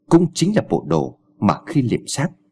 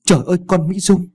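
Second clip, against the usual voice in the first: shocked exclaim; 8 semitones higher than usual. A narrator's reading. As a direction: gasp out the daughter's name. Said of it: "cùng reo lên".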